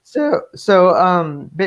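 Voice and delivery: real cracks breaking into the words; voice cracking. Real, not acted. Comic creator explaining his webcomic, voice cracking. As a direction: stumble as the voice cracks. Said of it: "now my voice is cracking".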